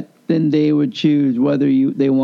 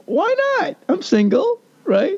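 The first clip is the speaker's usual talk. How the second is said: cheeky defiance. Retold or imitated. Defending his choice, much higher.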